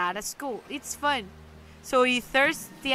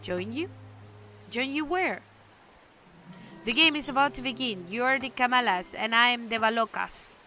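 grand game master; 4 dB louder than usual. Acted. Stranger offers board game.

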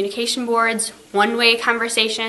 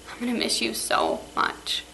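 tearful goodbye; 6 dB quieter than usual. Real, not acted. Teacher's tearful farewell to students.

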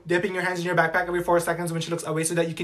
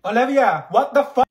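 frustrated shout; 6 semitones higher, 6 dB louder than usual. Acted.

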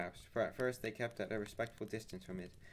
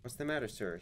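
startled, raised question; surprised servant; 3 semitones higher, 4 dB louder than usual. Acted. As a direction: ask in sudden alarm. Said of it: "he asked in great surprise".

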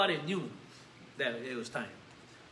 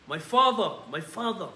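a grieving cry, the first father louder; cried out; 5 dB louder than usual. Acted. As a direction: Elisha cries out to his master going to heaven, loud lament. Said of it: "Elisha saw it and cried out".

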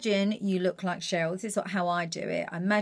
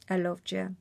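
a singer's line; 4 dB quieter than usual. Shown as a demonstration. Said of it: "expressive with her eyes".

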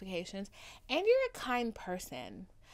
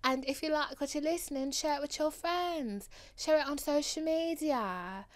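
put-on African accent; 4 semitones higher than usual. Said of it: "my African accent just then".

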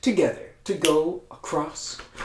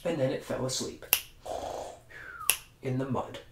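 much softer, low drowsy narration; sleepy hush; 4 semitones lower, 10 dB quieter, faster than usual. A narrator's reading. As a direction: let it drift off to sleep. Pig falls asleep.

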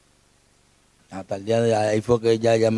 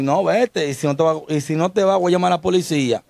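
retold angry order; 5 semitones higher than usual. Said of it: "Que me dice a mí".

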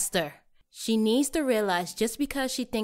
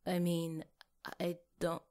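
sheepish backpedal; 7 dB quieter than usual. Acted. Worried she was too forward.

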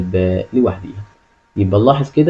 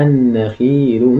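slow model reading; much slower than usual. Shown as a demonstration. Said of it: "الكلمة اللي بعديها".

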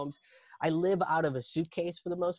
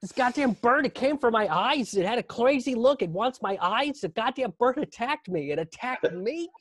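high, loud panicked babble; comic hysterical outburst, pitched way up; losing it; 8 semitones higher, 5 dB louder than usual. Retold or imitated. Man tells fiancée a rooster attacked him, hysterical. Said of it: "And I'm just losing it".

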